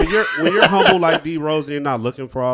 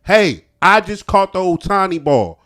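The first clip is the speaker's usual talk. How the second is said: excited yelling; 6 semitones higher, 9 dB louder than usual. Pretend. Acting out the fan's plea.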